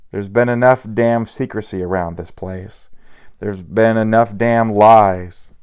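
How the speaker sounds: angry. Acted. Drunk bodyguard raging at Celia.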